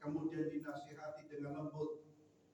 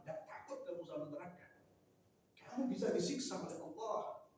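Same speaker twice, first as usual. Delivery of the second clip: stern warning; 4 semitones higher than usual. Shown as a demonstration. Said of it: "kata-kata keras itu sudah mulai mengucapkan lagi ancaman-ancaman".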